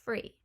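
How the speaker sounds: "Free" for three, with an F; Cockney th-fronting. Shown as a demonstration. Teacher repeating Cockney three for viewers, as "Free". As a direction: say "Free" slowly on its own with an F. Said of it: "will turn into free".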